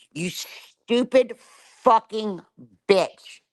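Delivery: seething, slow and heavy; slow furious insult. Real, not acted. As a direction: drag out each word in slow anger, bite the last.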